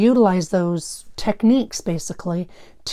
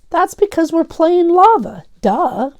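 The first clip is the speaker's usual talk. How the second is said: dismissive duh; 9 semitones higher, 6 dB louder, slower than usual. Acted. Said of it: "Phil said".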